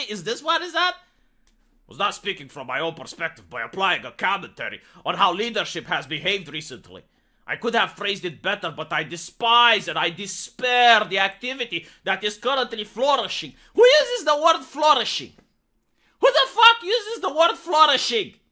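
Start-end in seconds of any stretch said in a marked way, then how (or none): 1.9-13.5 lower, monotone robotic HR voice; stiff corporate robot voice. Retold or imitated. Vlogger mocking a Twitter apology in a lower, robotic corporate voice. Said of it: "human beings don't talk this way". 13.7-18.4 louder, laughing in disbelief; outraged shout. Real, not acted. Vlogger mocking the HR tweet, louder with laughing outrage. Outraged rant about buzzword.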